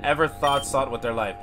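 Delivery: a hint of a furious despairing character; bitter character reading. Voices an angry game character.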